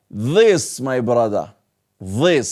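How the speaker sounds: put-on mild Persian-accented this, my brother; a light Persian accent on this. Teacher imitating a Persian speaker's this. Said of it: "a Persian person or".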